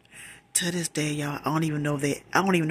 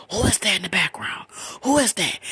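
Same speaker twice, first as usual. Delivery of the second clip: higher, louder insistent questioning; demanding retold question; 5 semitones higher, 4 dB louder than usual. Asking boyfriend who is in the background, insistent. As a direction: press him hard for an answer.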